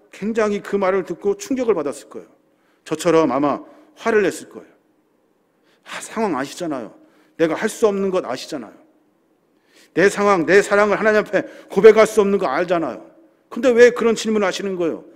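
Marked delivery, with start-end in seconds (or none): 5.8-15.0 mock protest. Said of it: "따졌을 거예요".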